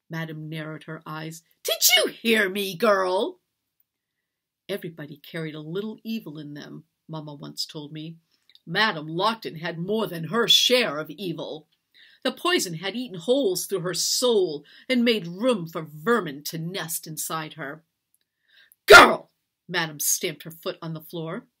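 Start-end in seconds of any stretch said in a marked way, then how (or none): 1.6-3.4 loud, higher challenge; raised voice, rising at the end; angry demand. A narrator's reading. Mistress threatens silent servant. 18.9-19.3 high, very loud bark; explosive one-word outburst; furious shout. A narrator's reading. Mistress stamps and shouts.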